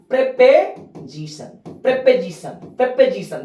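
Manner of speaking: प्रेपोजिशन with a short e: prep-e-zishan, repeated; correct pronunciation. Shown as a demonstration. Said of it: "ध्यान दीजिएगा". (प्रेपोजिशन का सही उच्चारण, बार-बार)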